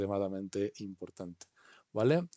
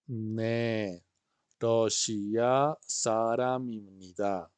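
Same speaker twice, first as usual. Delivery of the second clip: slow model phrase; much slower than usual. Shown as a demonstration. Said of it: "teacher models for repeat".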